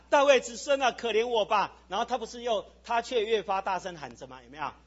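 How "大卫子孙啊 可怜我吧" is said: raised, higher calling voice; acted beggar's cry; second cry. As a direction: call out for mercy, moderately loud. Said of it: "他喊".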